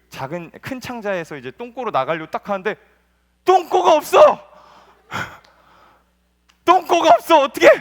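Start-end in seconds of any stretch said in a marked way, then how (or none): 3.4-7.7 high, loud panicked yelling; a loud cartoon panic; panicked shout. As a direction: scream in a hammed-up panic. Poop panics, no way out.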